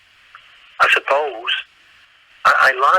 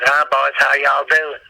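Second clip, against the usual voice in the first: Southern waitress; slower than usual. Retold or imitated. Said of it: "This woman came up to our table".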